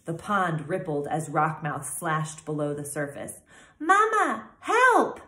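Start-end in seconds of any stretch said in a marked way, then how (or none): 3.8-5.2 high, loud squeaking gosling; panicked little gosling squeak; squeaky cry for help. A narrator's reading. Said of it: "squeaked Bright Bill".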